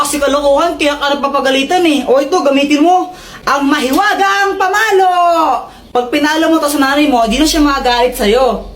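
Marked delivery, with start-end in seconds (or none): 3.4-5.1 grand announcement. Acted. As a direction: shout the item name with a flourish. Presenting the magic stick.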